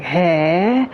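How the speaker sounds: drawn questioning "Hey?" with a rise; Japanese-style "hey?" of shock; surprised "hey". Shown as a demonstration. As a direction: react to the shocking news. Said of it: "It's like".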